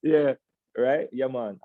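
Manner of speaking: hammed-up Jamaican lilt on yeah man; playful Jamaican accent. Leader jokes to the meeting in Jamaican accent, laughing. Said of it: "let me get it out of the system".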